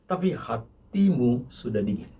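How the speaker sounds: quiet solemn verdict; God's rebuke. Retold or imitated. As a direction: drop the voice for the verdict. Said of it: "yang tadi Tuhan ngomong".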